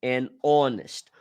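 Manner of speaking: "An honest" run together as "an onest", silent h; an honest with mute h. Shown as a demonstration. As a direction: link an straight onto the o of honest. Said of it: "aqui seria an".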